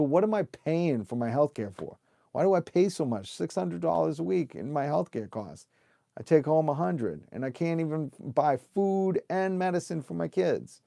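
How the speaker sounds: high, pressing retold outburst; almost losing it. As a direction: relive the exasperated rant from the pharmacy line. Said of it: "almost losing it in the C V S line".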